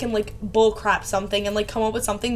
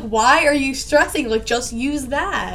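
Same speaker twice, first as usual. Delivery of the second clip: slow, drawn-out mock exasperation; exasperated; 2 semitones higher, slower than usual. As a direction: stretch it out, mildly fed up with a friend. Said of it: "it makes me so mad".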